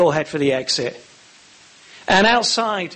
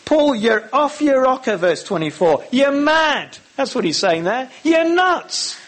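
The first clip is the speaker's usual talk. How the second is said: blurting; 7 semitones higher than usual. Retold or imitated. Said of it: "He blurts out".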